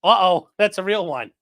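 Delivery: sudden mock worry; mock alarm. Listener hearing a real alert, mock alarm. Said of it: "And you're like".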